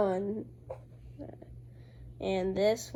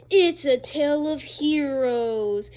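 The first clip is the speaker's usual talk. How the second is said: slow, louder epic announcer; movie trailer voice; 6 dB louder, slower than usual. Acted. Kid hyping his comic's heroes, slow trailer announcer voice. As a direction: boom each phrase like a trailer. Trailer-style intro continues.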